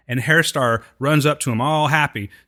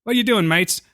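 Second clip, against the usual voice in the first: high-pitched attempt at an Australian greeting; lightly hammed-up Australian hiker; bad Australian accent; 9 semitones higher than usual. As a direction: put on a clumsy Aussie accent, pitched up. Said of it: "I suck at the accent".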